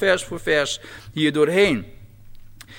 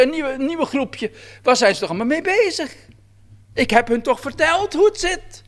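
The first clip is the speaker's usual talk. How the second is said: higher, lightly amused voice of God scoffing at the newest fads; God mocking, amused; 6 semitones higher than usual. Preacher voices God scoffing at new sects, lightly amused. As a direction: play God shaking his head and chuckling at human fads. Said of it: "Alsof God zou zeggen".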